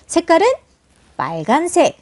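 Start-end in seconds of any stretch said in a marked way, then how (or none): none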